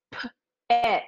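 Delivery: "P-et" split into its sounds; sounded out. Shown as a demonstration. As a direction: break "P-et" apart slowly. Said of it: "repeat and pronounce this word".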